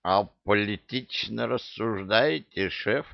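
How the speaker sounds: put-on hiccuping drunken question; drunk with hiccups. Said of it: "пьяно икнул кто-то".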